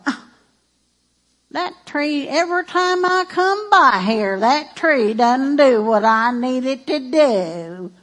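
drawling, slow Texan grumble; Southern accent complaint. Acted. Pastor mimics Jesus as a Texan complaining about the tree, Southern accent. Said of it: "he didn't talk in that southern accent".

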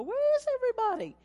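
high, puzzled mock voice; mock confused churchgoer. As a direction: play the lost churchgoer, squeaky and baffled. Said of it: "don't show up and go".

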